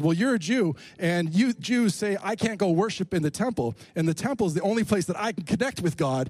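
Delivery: retold indignation climbing in pitch; defensive, aggressive retort. Samaritan woman challenging Jesus about the temple, mildly aggressive retort. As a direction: snap back as the offended woman, pitch rising. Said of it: "gets defensive and aggressive with him".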